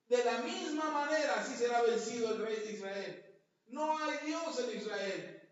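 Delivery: loud preacher's shout of the enemy's taunts; mock shouting messenger. Assyrian messengers taunting Jerusalem's people, loud shouted taunt. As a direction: bellow it up at the city walls. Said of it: "le gritaban".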